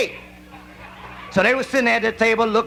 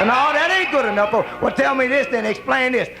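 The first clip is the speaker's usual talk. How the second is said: higher, pushy questioning; mock accusing wife; 4 semitones higher than usual. Wife grilling her man, a pushy mock yell. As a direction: demand an answer, half shouting. Wife's raised-voice interrogation.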